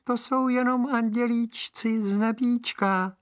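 very high tiny angel voice; tiny high voice pretending to be an angel; thin little voice. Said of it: "odpověděl tenkým hláskem".

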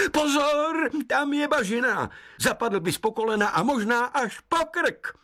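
high, urgent woodland voice; warning forest spirit. Acted. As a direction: warn like a caring sprite. Hejkal warns.

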